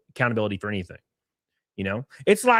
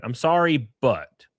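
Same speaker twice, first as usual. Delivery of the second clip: begrudging apology; slower than usual. Retold or imitated.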